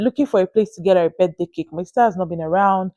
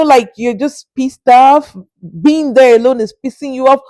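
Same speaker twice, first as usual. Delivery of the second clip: exasperated; 4 semitones higher, 4 dB louder than usual. Real, not acted. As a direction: drag it out with scorn. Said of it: "mocking shop lady's mood".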